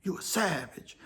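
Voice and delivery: thinking it quietly so the dangerous guy won't hear; under his breath. Retold or imitated. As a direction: keep it to yourself, barely voiced. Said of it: "But I ain't say nothing".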